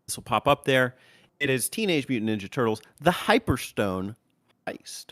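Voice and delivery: host the show's opening; review intro. Acted.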